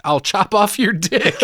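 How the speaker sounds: high, slow put-on menace; gleefully overacted villain rhyme; leprechaun threat. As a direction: draw out a hammy, high-pitched threat. Acting out leprechaun's rhyming threat.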